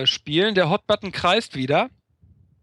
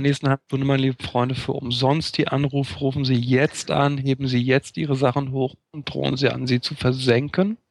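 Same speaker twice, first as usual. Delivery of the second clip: fast, pushy TV shopping pitch; infomercial; 3 semitones lower than usual. Pretend. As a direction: sell it like a late-night TV ad. Mock TV sales pitch.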